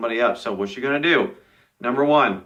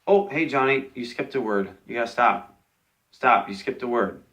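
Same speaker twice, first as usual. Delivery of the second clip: polite. Shown as a demonstration. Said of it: "what we're gonna do is say".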